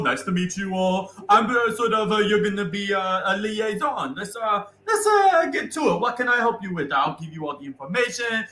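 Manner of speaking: high, bright-pitched hammed-up Italian accent. GM voicing Bobo to the party, hammed-up Italian accent. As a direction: play the chirpy Italian dwarf Bobo. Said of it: "making me feel bad about my Italian accent".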